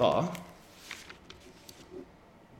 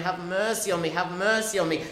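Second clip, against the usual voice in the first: loud repeated plea for mercy, pitch raised; crying out; 6 semitones higher, 5 dB louder than usual. Acted. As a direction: beg again and again, louder each time. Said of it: "he cries again and again".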